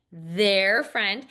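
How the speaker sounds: "Their friend" scooped as one chunk; "Their friend" as one rising phrase. Shown as a demonstration. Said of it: "Good, again".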